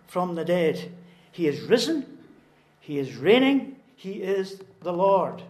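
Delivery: measured but forceful pulpit delivery; emphatic preaching. Real, not acted. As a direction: preach it out, landing on each key phrase. Preacher builds to a proclamation.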